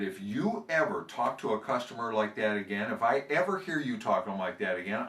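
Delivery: a hint of an angry manager telling off; mild scolding. Sales manager tells off the parrot, mildly heated threats. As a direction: threaten the bird, building up.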